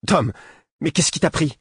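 furious whisper. A narrator's reading. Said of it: "souffla d'un ton furieux".

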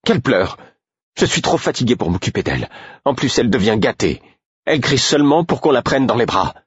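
high voice climbing with each grievance; exasperated tirade. A narrator's reading. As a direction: build from irritated outburst to high, relentless rant. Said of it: "Sa voix était montée d'un cran à chaque phrase". (tirade exaspérée, de plus en plus aiguë)

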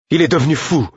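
shocked high exclamation; alarmed exclamation. A narrator's reading. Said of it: "m'exclamai-je".

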